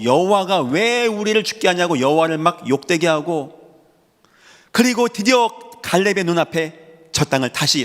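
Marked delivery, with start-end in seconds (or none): 0.0-2.0 retold resentful outcry. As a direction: voice the people's bitter complaint. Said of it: "다 원망하고 막 땅을 치고 이를 갈고".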